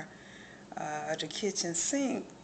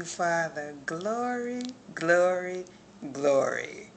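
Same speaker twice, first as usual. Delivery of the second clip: praise exclamations; 4 dB louder than usual. Real, not acted. Spontaneous praise to God.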